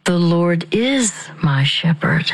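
P=A; stress on is. Shown as a demonstration. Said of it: "Then the next word will be my".

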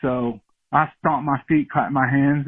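ordinary talk, nothing marked

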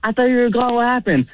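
high flustered babble; a caught-out son, flustered and high. Retold or imitated. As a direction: blurt it out caught off guard. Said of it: "I'm, like, so flustered".

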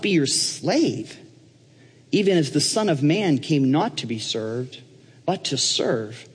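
slow, weighty Bible reading; measured, emphatic verse recitation; reading scripture aloud. Acted. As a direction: read each phrase deliberately with pauses between. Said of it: "he starts reading in verse twenty-five".

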